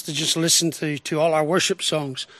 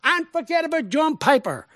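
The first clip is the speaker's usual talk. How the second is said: retold exhortation; 6 semitones higher than usual. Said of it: "And I said".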